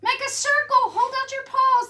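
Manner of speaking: high, loud orders; rally the crowd fast; urgent command. Acted. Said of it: "little Pipsqueak said".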